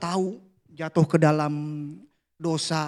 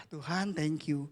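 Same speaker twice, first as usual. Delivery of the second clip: quiet prayer; 2 semitones lower, 8 dB quieter than usual. Pretend.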